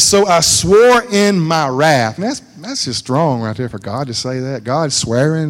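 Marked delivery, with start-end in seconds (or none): 0.0-2.2 voicing God's wrath. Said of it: "He says".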